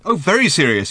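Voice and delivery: high, loud mocking echo; sarcastic shout. A narrator's reading. Arthur mocking Ford's grave warning, sarcastic shout. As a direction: throw VERY SERIOUS back, shouted sarcastically. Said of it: "he shouted".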